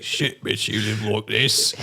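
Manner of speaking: lightly mock British accent; slow, drawn-out British put-down; Benedict Cumberbatch. Looking at the living situation, lightly mock British. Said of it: "Your accent of Benedict Cumberbatch".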